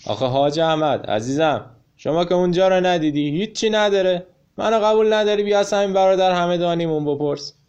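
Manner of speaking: taken aback. Acted. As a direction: blurt it out, caught off guard. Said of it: "همت که یکه خورده بود گفت".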